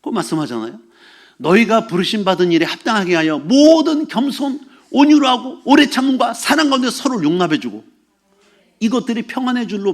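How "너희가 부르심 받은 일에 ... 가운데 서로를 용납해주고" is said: declamatory recital with stretched emphasis; scripture recitation. Acted. Pastor quoting the verse to the congregation, declamatory scripture recitation. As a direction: proclaim the verse, drawing out key words.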